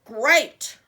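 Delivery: loud gleeful troll; troll roar. Acted. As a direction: bellow it greedily. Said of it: "roared the scary troll".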